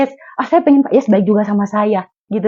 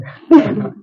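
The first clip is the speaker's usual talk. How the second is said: brief light chuckle; a quick laugh after speaking; short laugh; 4 dB louder than usual. Real, not acted. Laughs after happy remark.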